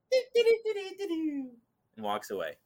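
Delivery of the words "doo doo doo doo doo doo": loopy sing-song. Retold or imitated. The possessed woman strolls past him, humming in a very high loopy voice. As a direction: float it up high like someone gone loopy. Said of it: "and now she's loopy".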